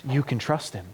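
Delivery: softly reassuring the congregation; tender reassurance. Acted. Tender reassurance after the peak.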